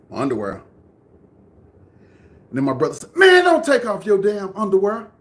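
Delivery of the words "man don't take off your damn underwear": loud, high-pitched brother's objection; raised, insistent imitation; retold defiant protest. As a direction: act out a kid yelling at his brother.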